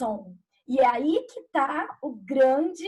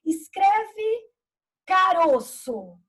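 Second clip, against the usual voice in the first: high call of escreve, then caroço drawn out slowly and louder; slow dictation; 6 semitones higher, 5 dB louder, much slower than usual. Acted. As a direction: dictate the word slowly to a child. Teacher dictating a word to a child. (ditando bem devagar para a criança)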